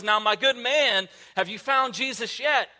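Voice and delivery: a hint of an exasperated preacher losing patience with the man; mock harsh tone. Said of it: "with this harsh tone".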